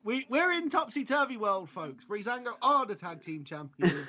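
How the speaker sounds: high-pitched, laughing disbelief; amused, pitch lifted by laughing. Real, not acted. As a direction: talk through real laughter. Laughs at the absurd result.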